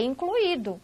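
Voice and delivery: incluído as in-clu-Í-do, i stressed; hiatus pronunciation. Shown as a demonstration. Teacher contrasts incluído with gratuito, stressed hiatus. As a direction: keep u and i apart in incluído. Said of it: "Não é igual aqui em cima".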